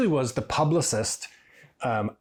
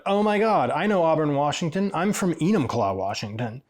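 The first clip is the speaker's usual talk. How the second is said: excited recognition; 4 semitones higher than usual. Retold or imitated.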